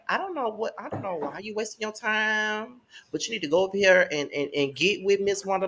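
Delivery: Jamie. Retold or imitated. Host quoting a friend who pushes her, high mock nagging. Imitating Jamie's scolding, higher voice.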